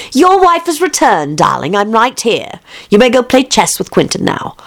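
high, sweet wife voice; a light touch of a doting wife; fond wife. Acted. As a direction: coax him fondly.

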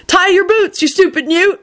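high chirpy little voice; chirping bootlaces. Acted. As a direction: chirp it up high like tiny laces. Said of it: "bootlaces that chirped".

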